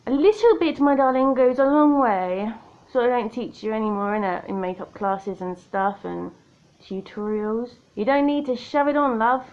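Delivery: playful, lightly put-on Australian accent. Makeup vlogger advising viewers to go easy, playful Australian accent. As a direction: slip into a light Australian twang for fun.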